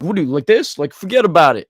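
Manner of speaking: loud mock New York gangster; white gangster voice. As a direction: play a wiseguy, forget about it. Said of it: "talk like, like a white gangster guy".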